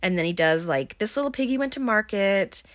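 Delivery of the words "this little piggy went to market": higher, lilting nursery-rhyme voice; light bedtime singsong; nursery-rhyme play. Retold or imitated. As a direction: recite it playfully to a small child. Dad playing with daughter at bedtime.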